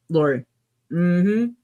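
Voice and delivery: talking while chewing; words around a bite of food; mouth full. Real, not acted. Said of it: "I'm talking with my mouth full".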